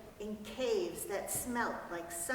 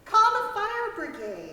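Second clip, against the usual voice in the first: much higher and louder, shrieking for help; panicked cry; 11 semitones higher, 12 dB louder than usual. Acted. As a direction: yell it out in a panic. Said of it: "cried Missus Prothero".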